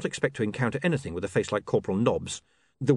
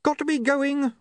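very high, frantic cry; mild scream; 3 dB louder than usual. A narrator's reading. William escapes the chatty watchman, high frantic cry. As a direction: cry out and flee. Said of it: "William screamed".

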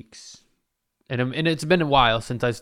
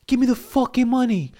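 robber yelling; 12 semitones higher, 4 dB louder than usual. Retold or imitated. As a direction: bark orders like a robber. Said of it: "turns to the cashier".

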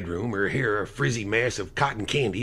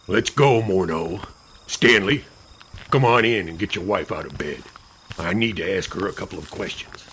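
ordering; 2 semitones lower, 4 dB louder than usual. Acted. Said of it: "Lash ordered".

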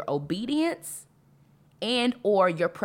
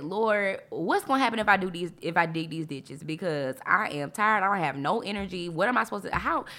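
whiny complaint; 2 semitones higher than usual. Retold or imitated. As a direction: act out her old self arguing with the Lord. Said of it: "I would have said".

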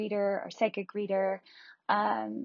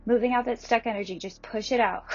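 energetic push; 2 semitones higher, 4 dB louder than usual. Acted. Coaching breath of fire.

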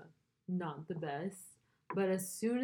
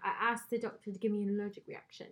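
quick put-on British accent; attempted British sketch voice; British skit impression; 2 semitones higher, faster than usual. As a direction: rattle it off in mock British. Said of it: "that S N L skit".

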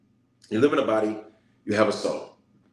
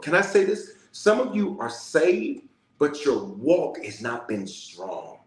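preaching emphasis; 3 semitones higher, slower than usual. Acted. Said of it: "preaching emphasis".

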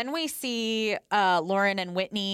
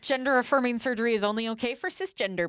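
sarcastic; 3 semitones higher, faster than usual. Acted. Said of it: "we say things overly sarcastically".

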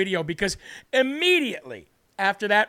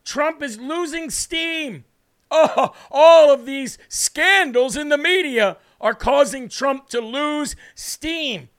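mocking; 3 semitones higher, slower than usual. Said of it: "the fake news media had to come out and say".

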